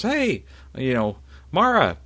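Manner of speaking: calling Mara across the clearing, high and loud. Acted. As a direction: hail her from a distance. Jason calls out to Mara.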